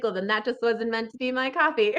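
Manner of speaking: chuckling through it; laughing at myself. Pretend. Talking to God about spilled coffee, laughing. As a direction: shrug it off with a laugh. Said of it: "I'll be like".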